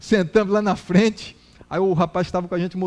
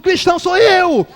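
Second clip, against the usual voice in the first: slow, high, very loud cry; mock congregation response; 10 semitones higher, 9 dB louder than usual. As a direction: imitate a crowd shouting back. Congregation shouting back to pastor.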